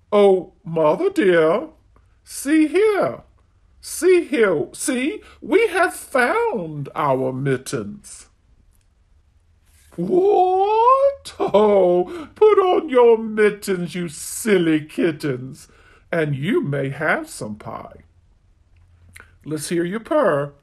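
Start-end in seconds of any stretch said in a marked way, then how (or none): 0.1-8.3 a lightly voiced kitten showing off; eager kittens. Kittens showing mother their found mittens, eager. 10.0-18.0 a mother cat won over; mother cat relenting. Acted. Mother cat telling kittens to put on mittens, softening.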